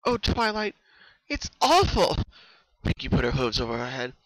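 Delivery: high, loud desperate wail; quivering, terrified. Acted. Pinkie confessing her terror to Twilight, high loud quivering voice. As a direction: pour out panic. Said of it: "Her voice was quivering".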